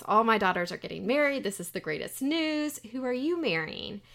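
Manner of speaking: lightly acted, gush over the great news; delighted mother. Mother delighted all daughters are marrying.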